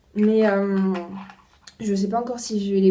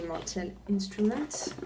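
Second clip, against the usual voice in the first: French speaker's slow try at an English accent; a touch of self-mocking English accent; 6 dB quieter, slower than usual. Shown as a demonstration. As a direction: say Mortal Instruments the English way, a bit slowly. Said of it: "mon super accent".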